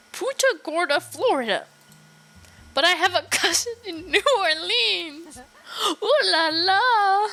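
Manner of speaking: high, hammed-up French accent; fake French accent. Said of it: "with the line wolf French accent".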